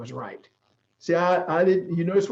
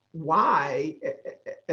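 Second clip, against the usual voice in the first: catching on a sob, words failing; voice breaking; much slower than usual. Real, not acted. A man of faith choking up, telling why God chose him, voice breaking. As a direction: choke up, the breath giving out mid-word.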